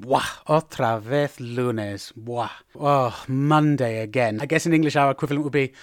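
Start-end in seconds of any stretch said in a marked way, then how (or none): 0.0-4.4 slow, low weary groan of words; unmotivated. Shown as a demonstration. Worker facing another Monday, slow and reluctant. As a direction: drag it out, softly deflated. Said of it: "when you don't feel like doing something".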